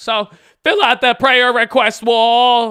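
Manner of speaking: very loud, high voice with a slight crack. Wrapping up with y'all after a birthday shoutout, with a mini voice crack. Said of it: "That was a mini voice crack".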